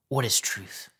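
a fuller, scornful jab; mocking Pilate. Pilate retorting to Jesus, open mockery. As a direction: throw the question back at him with scorn. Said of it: "It was probably sarcastic".

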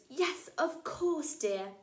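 slow, dazed reply; as though hypnotised. Acted. Mother answering her child in a dreamy daze. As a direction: answer as if in a trance. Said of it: "as though hypnotised".

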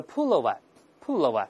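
British model word, said twice; British accent. Shown as a demonstration. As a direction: say "pullover" as British "pull-oh-vuh". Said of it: "在英国呢叫pullover".

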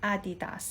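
"Adidas" said the Mandarin way as a-di-da-si, slowly; slow Mandarin "Adidas" with Chinese tones; Chinese reading. Shown as a demonstration. Teacher showing viewers how Chinese say Adidas, slow Mandarin sounds. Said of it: "คนจีนอ่านว่า".

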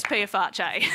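pie face turned into "Pia Farche", pee-a-far-chay; absurd mispronunciation. Retold or imitated. Comic quoting a friend, Pia Farche as pee-a-far-chay. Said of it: "a friend who says Pia Farche".

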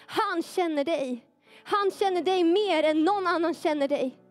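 urgent, insistent preacher delivery, building in pitch; impassioned preaching. Real, not acted. Preacher assuring the young people God knows their suffering, impassioned. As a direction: preach it without letting up.

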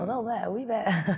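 put-on a wee bit of Scottish accent, lightly done. Model teases the host with a light Scottish accent. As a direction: drop into a playful Scottish lilt. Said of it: "you can do a wee Scottish accent too".

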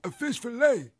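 entitled customer impression. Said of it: "you sound like one of them cigarette commercials".

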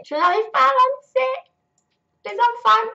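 high, loud exasperated cry; frustrated wail. Real, not acted. Mum player stuck with hungry kids, wailing in frustration.

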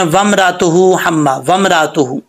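वमरातुहु run together with no catch after रा. Shown as a demonstration. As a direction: show the mistake, hamza dropped in वमरातुहु. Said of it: "क्या mistake होती है". (वमरातुहु, हमज़ा छोड़कर गलत)

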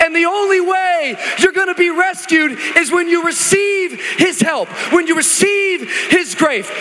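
loud, high, rising preacher's shout; full-force preaching. Acted. Pastor preaching loud and high to the church. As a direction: preach it out to the congregation.

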